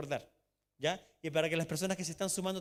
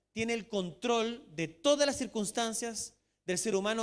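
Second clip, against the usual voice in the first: rising, louder preacher's build; preaching; 3 semitones higher, 4 dB louder than usual. Acted. Pastor to his congregation, preaching with force. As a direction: drive the point home to the church.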